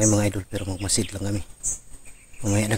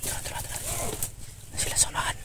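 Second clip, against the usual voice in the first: soft hushed whisper; 9 dB quieter, faster than usual. Acted. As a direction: whisper so no one hears. Sneaking past enemies.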